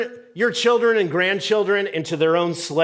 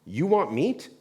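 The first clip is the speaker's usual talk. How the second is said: exasperated God; 2 semitones lower, 3 dB quieter than usual. Retold or imitated. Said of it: "And God's like".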